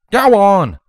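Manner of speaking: high, loud order to leave; commanding. Acted. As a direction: bark the crowd away. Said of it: "Applejack commanded".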